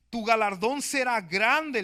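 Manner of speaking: a lightly voiced, booming God. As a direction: pronounce the promise like God speaking from above. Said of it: "le dice".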